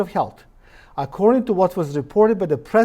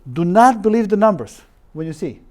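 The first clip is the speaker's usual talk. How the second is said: "not" punched louder with a falling tune; stress on not; 3 semitones higher, 5 dB louder than usual. Retold or imitated. Quoting the professor's warning to viewers, stressing "not". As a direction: hit "not" hard as a warning. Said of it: "listen to his statement".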